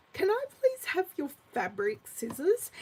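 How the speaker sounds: lightly voiced son asking politely, rising at the end; a hint of a teenager asking nicely; polite teen son. Mum imitating her son's polite request, lightly voiced. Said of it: "he asked me just like that".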